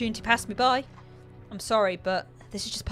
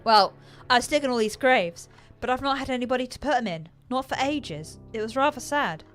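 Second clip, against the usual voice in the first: higher, louder, quick matter-of-fact; reasonable; 6 semitones higher, 7 dB louder than usual. A narrator's reading. Gravedigger explaining her empty graves: reasonable. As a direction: chat as if it's a small sadness. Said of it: "in a reasonable sort of voice".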